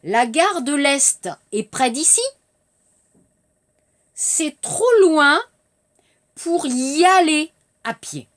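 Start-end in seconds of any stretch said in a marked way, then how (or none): 4.1-8.3 slow model. Shown as a demonstration. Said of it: "Je répète".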